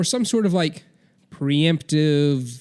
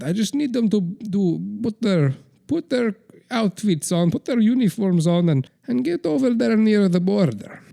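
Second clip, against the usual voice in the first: a hammed-up scheming dictator summoning his aide; Vladimir Putin impression; 3 semitones higher than usual. As Putin calling aide Igor close, mock sly scheming. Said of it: "Vladimir Putin impression".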